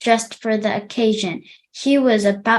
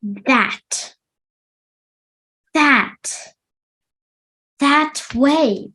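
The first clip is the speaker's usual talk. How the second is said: quivering man; 4 semitones higher, much slower than usual. A narrator's reading. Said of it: "pointed the quivering man".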